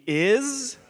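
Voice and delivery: Isra split in two, "IZ ... rah", first part high and held; say-along demonstration. Shown as a demonstration. Preacher leading church in his son's name, syllable by syllable. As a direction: draw out "IZ", pause, then "rah" for Isra. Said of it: "Say with me".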